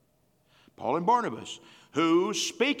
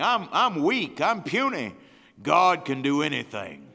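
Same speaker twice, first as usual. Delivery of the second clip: louder, building sermon cry; from confession to proclamation, getting louder; rising preaching force; 5 dB louder than usual. Real, not acted. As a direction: build it up, louder each line.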